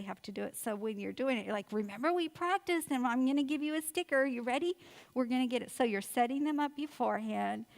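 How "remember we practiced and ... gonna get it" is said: higher, eager parent voice; rally a little kid to get ready; encouraging coaxing. Acted. Mom reminding child of the practised car seat routine, encouraging.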